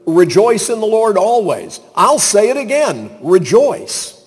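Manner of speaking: high, ringing preacher's call; emphatic exhortation. Acted. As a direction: urge the congregation, driving the repeat home. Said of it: "He's gonna say later".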